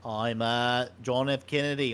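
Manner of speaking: lightly voiced John F. Kennedy, slow; a mild Kennedy drawl, barely off his own voice; JFK impression. Shown as a demonstration. Host demoing JFK for his co-host, lightly voiced. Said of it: "You talk like this".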